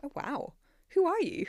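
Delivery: high, loud who are you; playfully astonished at her; amazed. Real, not acted. Amazed reaction to early use.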